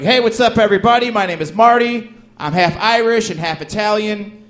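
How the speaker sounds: hammed-up stage delivery into the punchline; formulaic stand-up comic. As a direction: copy the hyped comics, high and loud. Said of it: "I went up on stage. I'm like".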